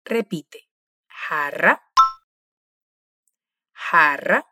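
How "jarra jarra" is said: jarra with a rasping throat j, like the Portuguese initial R; Spanish J sound. Shown as a demonstration. Profesora: jarra con la jota raspada en la garganta. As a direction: rasp the j of jarra at the back of the throat. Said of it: "la pronunciamos como hacemos con la R de inicio en portugués".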